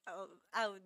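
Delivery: stumbling over the phrase; tongue-tied false starts. Real, not acted. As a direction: fumble the words and restart haltingly. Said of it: "forgot how to speak".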